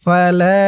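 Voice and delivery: ফালা with the লা held one beat; one-alif stretch. Shown as a demonstration. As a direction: draw out the final vowel of ফালা. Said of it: "লা এক আলিফ টান".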